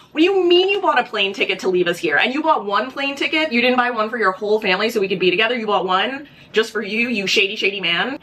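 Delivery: half-acted incredulous wife; mock outrage. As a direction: play her disbelief and rising anger. Wife confronts husband over ticket.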